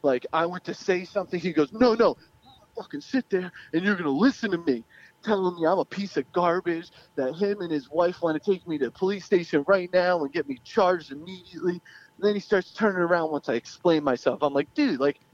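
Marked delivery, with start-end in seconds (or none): 1.7-4.8 retold angry scolding, slightly raised pitch; going off. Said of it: "he just went off on me". 14.7-15.2 higher-pitched retold pleading of innocence; defensive protest. Retold protest to accusing father.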